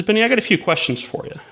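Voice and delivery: lightly put-on circus host voice; clown host. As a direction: play a clown setting up his volunteer. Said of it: "the clown asks his name".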